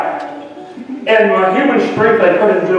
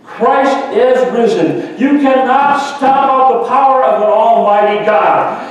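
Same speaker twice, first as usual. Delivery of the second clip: higher, ringing pulpit proclamation; fiery preaching; 3 semitones higher than usual. Acted. Pastor preaching the Easter victory to the congregation. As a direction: preach it with full conviction.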